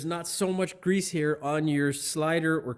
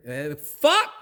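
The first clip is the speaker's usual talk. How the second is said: pained curse; 6 dB louder than usual. Real, not acted. Hit the camera.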